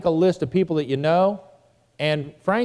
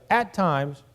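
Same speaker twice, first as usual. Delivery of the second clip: "at times" deliberately set apart; emphasize both words, "at times"; stress on "at times". Shown as a demonstration. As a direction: give "at times" its own weight. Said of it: "I emphasize".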